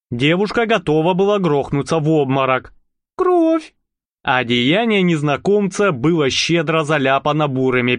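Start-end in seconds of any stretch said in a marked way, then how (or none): 3.2-3.7 high horrified cry. Acted. Marusya seeing blood on the stranger, horrified. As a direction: gasp the word out in horror.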